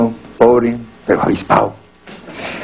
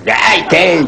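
mock tough shout; 5 semitones higher than usual. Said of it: "Yo decía".

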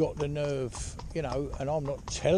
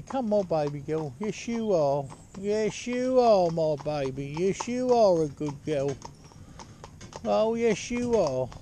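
put-on soothing baby talk; slower than usual. Shown as a demonstration. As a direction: coo to the mare like a baby. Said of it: "Another one will be".

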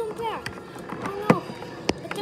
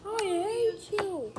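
mock wrestler line; 2 semitones higher, slower than usual. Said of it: "Brock just said".

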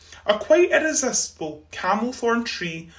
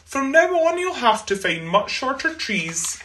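teasing; 5 semitones higher than usual. Acted. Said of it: "they teased".

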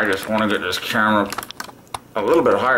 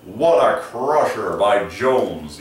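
home game announcer; 4 dB louder, much slower than usual. Pretend. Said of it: "the home game announcer".

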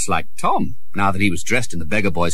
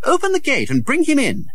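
lightly voiced commanding prince; 3 dB louder than usual.

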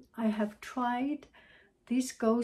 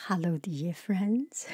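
voiceover greeting; 3 semitones lower than usual. Shown as a demonstration. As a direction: greet listeners like a voiceover read. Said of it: "so we are doing the voiceover".

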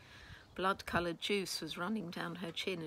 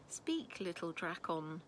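sighing; slower than usual. Acted. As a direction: let it out on a light sigh. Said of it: "she sighed".

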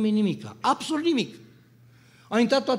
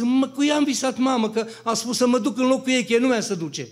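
high, louder shaken words to mother; shaken telling; 6 semitones higher, 4 dB louder than usual. Retold or imitated. Son tells his mother, shaken, about the dream, high and loud. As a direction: blurt it out still trembling. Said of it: "am, am tremurat".

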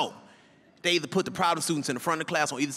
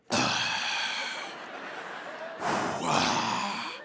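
nervous sigh; 9 semitones lower, 4 dB quieter than usual. Retold or imitated. Son sighing nervously.

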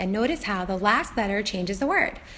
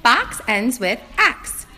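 slow and deliberate; slower than usual. Shown as a demonstration. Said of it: "Now I check through the whole word".

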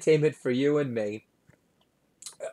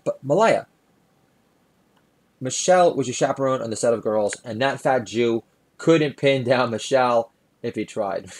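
flippant chill-pill; 3 dB louder than usual. Acted. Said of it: "in his typical flippant ticket, chill pill fashion".

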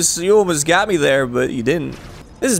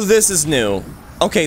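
ordinary talk, nothing marked

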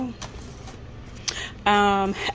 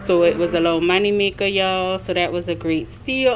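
slightly breathless from walking in; out of breath. Real, not acted. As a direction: talk while catching your breath. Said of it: "if I'm out of breath".

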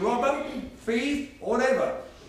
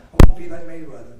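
mock whiny excuse; 4 semitones lower, 18 dB louder, faster than usual. Mocking excuse-maker.

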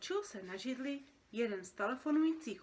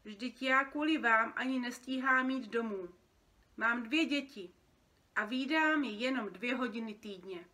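louder, aggrieved protest; plaintive complaint; 3 semitones higher, 6 dB louder than usual. Acted. Overworked parent creature blaming the boy, aggrieved. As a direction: pour out a grievance.

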